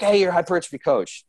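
high-pitched imitation of someone calling out; mock yell. People yelling at the coach on seeing him, mock yell. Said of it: "like, yell at me".

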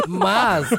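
talking through real laughter; real giggle on the words; laughing. Real, not acted. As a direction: laugh while making the point. Laughing at Hannah remark.

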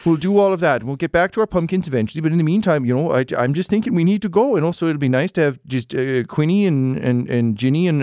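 a hint of a bustling, upbeat farm wife; Penny, brisk and cheerful. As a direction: sweep him along with cheerful resolve. GM voices Penny again.

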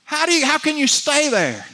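high, impassioned preacher's question; fervent challenge. Real, not acted. Preacher asking how anyone stays gloomy, high and impassioned. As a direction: pitch it up in fervent disbelief.

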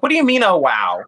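high indignant pitch jump then drop on wow; indignant retort. Retold or imitated. Answering a condescending question, high indignant retort. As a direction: throw it back at them, offended. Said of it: "I'm like".

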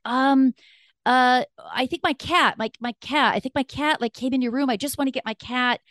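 high, stammering intruder voice; imitated flustered excuse. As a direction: stumble through a made-up excuse. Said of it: "say something off the cuff".

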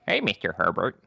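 lightly voiced cartoon teenager; Chris from Family Guy. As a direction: greet him as a goofy cartoon boy. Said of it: "imitate almost all the people from Family Guy".

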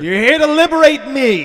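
high toy voice. Acted. Toy character speaks up.

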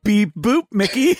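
a high, chirpy beep-boop robot; toy robot voice. Pretend. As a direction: play a toy robot greeting. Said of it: "who I will not A I-ify".

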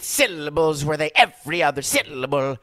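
a hint of hammed-up Italian accent; lightly mocked Italian-accent rhythm. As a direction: lean on every other syllable like an Italian. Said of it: "That's how they all talk".

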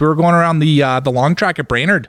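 a light Minnesota-Scandinavian lilt on the vowels; Minnesota accent. Pretend. Friend riffing on a Fargo trip in a light Minnesota accent. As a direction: play a folksy Upper Midwest local. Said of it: "I don't want you to stop".

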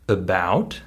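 "about" with its A reduced to "uh"; schwa for A. Shown as a demonstration. Teacher recalling the example word, schwa at the start of "about". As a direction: make the first letter of "about" a weak schwa. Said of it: "becomes the schwa sound".

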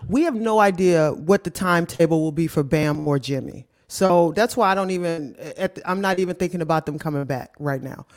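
crackling mic; mic crackles on the words; crackly usb mic. Real, not acted. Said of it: "Wait, my mic is crackling?".

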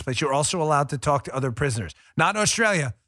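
ordinary talk

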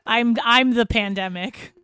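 slow, laughing through the joke. Real, not acted. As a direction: chuckle out the words.

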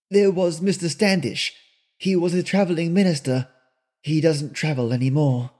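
put-on fond and wistful, telling old history; old Granny. Granny continues the list.

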